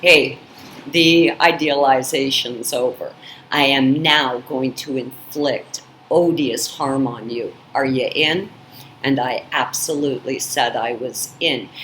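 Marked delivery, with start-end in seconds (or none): 0.0-8.5 lower, a lightly voiced menacing creature; a hint of a sinister demon's offer. Abuser voiced as a demon, lightly lowered and menacing. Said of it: "this demon-possessed creature clearly said".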